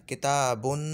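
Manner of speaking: किताबुन with the -un ending spoken; pronunciation shown. Shown as a demonstration. Teacher showing spoken form of the word. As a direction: say it as it sounds. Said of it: "इसका तलफ़ुज़ यूँ बन रहा है".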